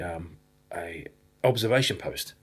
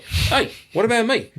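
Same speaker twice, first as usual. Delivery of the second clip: high, loud mock panic calling after a friend; hammed-up cry of being left behind; panicked plea; 12 semitones higher, 6 dB louder than usual. Friend runs off, a mock panicked high call after him.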